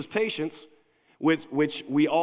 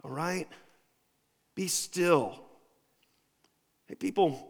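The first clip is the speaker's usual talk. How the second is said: commanding hush; 2 semitones higher, much slower than usual. Retold or imitated. David hushing the emotional people, sharp commands. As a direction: bark it to silence the crowd, then settle. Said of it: "And David just goes".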